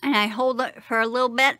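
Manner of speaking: fingers pressing on lips. Real, not acted. Seen 0: Lower denture just inserted; fingers hold lower lip and jaw while speaking.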